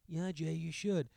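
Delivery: "should" held and falling, coaxing; answering himself. Retold or imitated. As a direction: egg yourself on, drawn out. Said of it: "I'm like".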